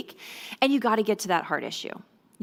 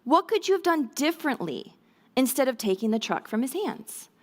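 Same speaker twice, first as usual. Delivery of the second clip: gentle parent question; 4 semitones higher than usual. Shown as a demonstration. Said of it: "ask something like this".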